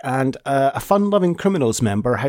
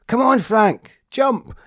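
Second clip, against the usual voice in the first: mock crowd cheering him on, pitched up high; crowd egging on; 9 semitones higher, slower than usual. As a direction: egg him on like a rowdy crowd. Glasgow crowd egging on singer.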